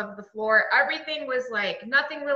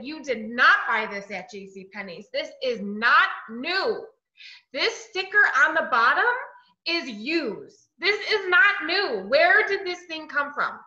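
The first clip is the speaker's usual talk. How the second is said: angry accusation. Retold or imitated. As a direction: hammer him with each accusation. Accusing boyfriend over candlestick.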